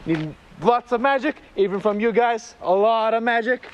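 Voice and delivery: showman host voice; kids party magician. Acted. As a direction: announce the trick to the kids. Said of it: "hosts magic show for kids".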